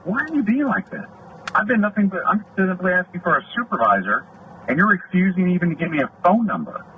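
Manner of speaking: high-pitched, pleading indignation; exasperated protest. Retold or imitated. Deputy protests being refused a supervisor's number, exasperated. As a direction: retell an affronted complaint, voice pitched well up. Retells his protest to unhelpful officer.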